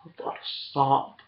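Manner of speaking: whisper. Real, not acted. After shouting, drops voice.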